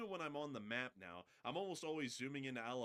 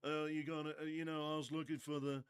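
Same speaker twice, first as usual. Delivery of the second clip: pirate character voice; 3 semitones higher, 4 dB louder than usual. Retold or imitated. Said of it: "I tell you".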